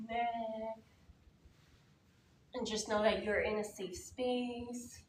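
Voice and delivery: unhurried, spaced-out meditation guidance; calm, even voice with long pauses; guided meditation. Real, not acted. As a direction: ease the group into stillness, phrase by phrase. Leads group into meditation.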